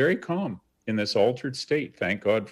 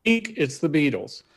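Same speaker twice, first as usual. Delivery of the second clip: inner fan scream; 5 semitones higher than usual. Retold or imitated. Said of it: "I hear a scream in my head".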